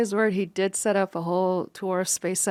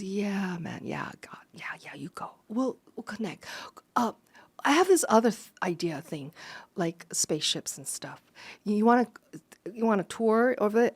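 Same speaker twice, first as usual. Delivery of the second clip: imitating a mumbling guy. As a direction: mumble it shyly, half whispered. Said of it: "kinda stuttering a little bit".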